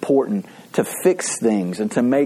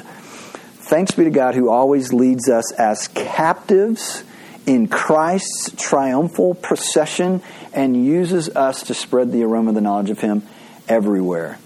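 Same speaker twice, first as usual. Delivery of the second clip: scripture reading. Acted. Reads verse fourteen aloud.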